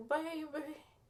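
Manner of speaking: distracting put-on, slow, drawn-out Texan drawl. Retelling a film actress's role as the president: imitating Uma Thurman's Texan accent. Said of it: "distracting version of a Texan accent".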